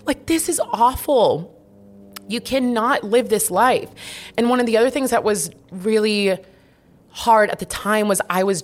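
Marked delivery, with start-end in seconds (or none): 0.0-3.9 high, strained self-talk with a laugh; pleading with herself, pitched way up; inner voice scolding herself. Retold or imitated. Scolding herself by name about the awful relationship. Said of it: "I just remember thinking".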